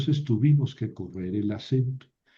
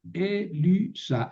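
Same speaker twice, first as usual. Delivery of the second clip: Elisa stressed on the initial E, E-li-sa; acento en la primera sílaba; 5 semitones higher, much slower than usual. Shown as a demonstration. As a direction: say Elisa with the accent on its first syllable. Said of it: "el acento cambia". (Elisa con acento esdrújulo en la E)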